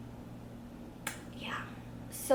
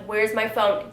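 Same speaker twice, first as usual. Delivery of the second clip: mildly annoyed demand; a touch of exasperation; retold irritation; 4 dB louder than usual. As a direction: ask with restrained impatience. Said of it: "I was so mad about it".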